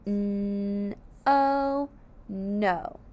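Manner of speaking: letters first, then the word; sounding out letters. Shown as a demonstration. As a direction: spell it aloud then blend. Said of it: "Sound out no".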